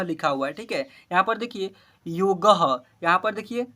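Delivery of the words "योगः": योगः said as yo-gaha; visarga ending. Shown as a demonstration. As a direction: close योगः with an echoed aha. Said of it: "अह है last में". (योगः में विसर्ग का साफ़ उच्चारण)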